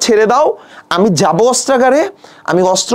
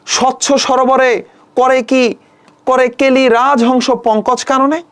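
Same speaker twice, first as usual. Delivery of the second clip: poem recitation; 2 semitones higher, much slower than usual. Shown as a demonstration. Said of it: "teacher reciting the verse line".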